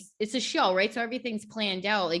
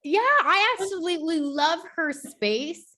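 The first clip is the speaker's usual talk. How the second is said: laughing; 9 semitones higher, 7 dB louder than usual. Real, not acted. Laughing gush about host's space.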